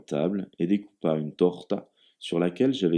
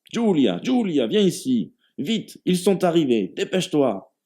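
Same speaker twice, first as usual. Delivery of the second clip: bellowing like a farm animal; 10 semitones higher than usual. A narrator's reading. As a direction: yell it across the house. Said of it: "il se mit à brailler comme un animal de ferme".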